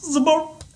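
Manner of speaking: very high, quick zıbap sound; high-pitched catchphrase. Shown as a demonstration. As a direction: chirp it up high and short. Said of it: "Bu ses beni mutlu ediyor".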